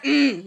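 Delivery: short imitated zombie "mm"; mock zombie moan; zombie grunt. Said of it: "he's a zombie too".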